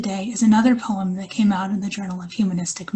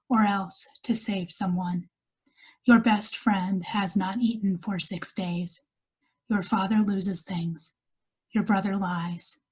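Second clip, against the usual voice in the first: measured poetry reading with pauses between lines; poem recital. Acted. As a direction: read each line as verse, letting it settle. Reads her poem aloud.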